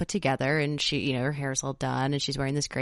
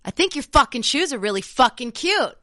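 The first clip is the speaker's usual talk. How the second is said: retold sassy compliment; 8 semitones higher, 5 dB louder than usual. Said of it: "I was like".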